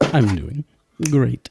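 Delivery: booming overly cheerful robot; loud robot cheer. Acted. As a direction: blurt it out too loud.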